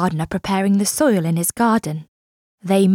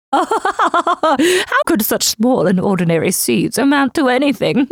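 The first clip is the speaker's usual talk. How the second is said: sneering neighbour; 3 semitones higher than usual. Acted. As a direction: drag it out with contempt. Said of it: "they laughed".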